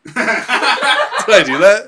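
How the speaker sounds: high, slow nasal-free put-on voice; Urkel impression. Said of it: "That's my impression of".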